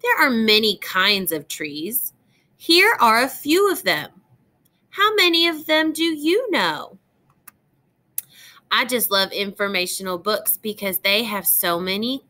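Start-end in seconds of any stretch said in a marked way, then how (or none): 0.0-7.0 put-on bright, lilting read-aloud voice for young listeners; reading to children. Teacher reads a tree book to young students, gentle storytime reading.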